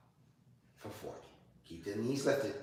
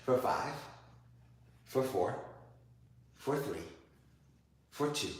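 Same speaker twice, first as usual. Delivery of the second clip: laughing; 3 semitones higher, 9 dB louder than usual. Real, not acted. Teacher laughing after teasing her student about the last round. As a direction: laugh it out while promising.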